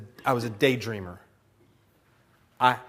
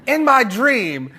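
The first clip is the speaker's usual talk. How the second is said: high, loud, drawn-out accusation; hammed-up scolding, slow and high; mad wife; 10 semitones higher, 7 dB louder, much slower than usual. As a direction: imitate an indignant wife, stretching the words. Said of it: "she'll be mad at me".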